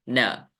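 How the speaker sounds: न short, dropped low; unstressed last syllable. Shown as a demonstration. Teacher finishes the broken-up word, final syllable unstressed. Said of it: "मैंने कैसे बोला".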